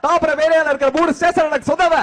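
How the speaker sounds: mass hero voice. Acted. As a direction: proclaim like a swaggering star. Mock hero boast. (பெருமை பேசும் hero குரல்)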